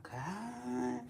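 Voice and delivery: mock outraged self. Retelling her rant at the washing machine, mock outrage. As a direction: play her own fed-up rant. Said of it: "I'm like".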